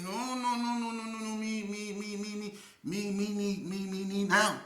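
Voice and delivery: high insistent broken-English voice; squeaky stubborn no no no; high mock accent. Imitating the man again.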